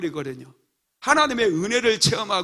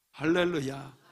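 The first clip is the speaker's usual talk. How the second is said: ordinary talk, nothing marked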